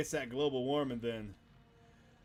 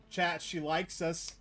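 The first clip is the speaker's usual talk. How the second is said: slow, higher, smug; gloating; 4 semitones higher, much slower than usual. Real, not acted. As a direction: savour it to chat. Gloating to chat.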